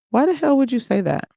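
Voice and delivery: high, indignant disbelief; taken aback and snapping back; shocked retort. Retold or imitated. Friend asks if she's pregnant, shocked indignant retort.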